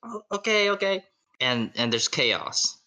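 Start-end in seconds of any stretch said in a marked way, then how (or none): 0.0-1.0 much higher flustered father; hammed-up calming down; flustered dad. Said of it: "he says".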